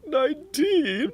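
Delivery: squeaky high, slow question; high squeaky confusion. Acted. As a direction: pipe it up high and puzzled. Dirk hears his name, confused.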